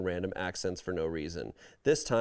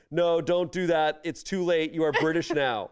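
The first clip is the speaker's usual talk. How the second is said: anxious inner voice; 6 semitones higher, 4 dB louder than usual. Retold or imitated. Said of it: "my anxiety is going".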